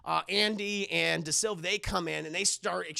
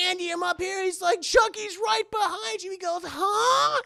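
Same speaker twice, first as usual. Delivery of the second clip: mock shouting; 12 semitones higher, 6 dB louder than usual. Characters shouting across ride.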